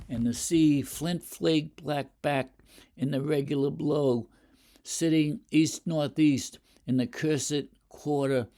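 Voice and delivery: measured poetry reading; poem reading. Shown as a demonstration. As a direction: read the stanza aloud with care. Teacher reads the stanza aloud.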